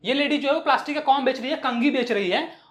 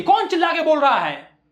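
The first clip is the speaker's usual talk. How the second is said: mock indignant shout; acted bellow of a street seller; bold loud voice; 3 semitones higher, 4 dB louder than usual. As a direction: challenge him boldly, voice raised. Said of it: "और bold आवाज में बोलती है".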